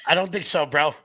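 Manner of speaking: high, mocking and amused; sarcastic disbelief. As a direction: call out the scammer's lie. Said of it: "And I'm like".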